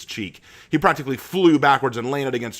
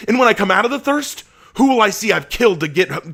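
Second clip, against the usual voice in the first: much higher, much louder, desperate; anguished shouting lament; 9 semitones higher, 7 dB louder than usual. Acted. Asher lamenting his thirst to Abraham, anguished shouting. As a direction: cry out your torment.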